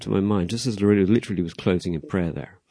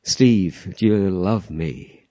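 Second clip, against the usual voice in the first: Jesus asking Steve; much slower than usual. Retold or imitated. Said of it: "He'll say".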